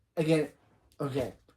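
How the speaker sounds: plain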